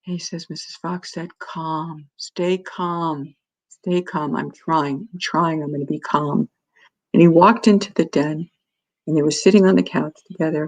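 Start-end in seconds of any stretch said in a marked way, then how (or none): 0.5-6.5 softer, hushed self-talk, steadying himself; telling himself stay calm. Retold or imitated. Shaken father hushing himself before facing his son, softer. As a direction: breathe and talk yourself down under your breath.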